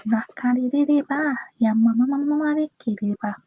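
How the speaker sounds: rapid run of prayer syllables; fervent murmurless glossolalia; speaking in tongues. Real, not acted. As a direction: pray in tongues, syllables tumbling out quickly. Praying in tongues mid prayer.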